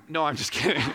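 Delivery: laughing it off, just kidding; chuckling through a joke to the congregation. Real, not acted. Pastor laughs at his own joke, chuckling.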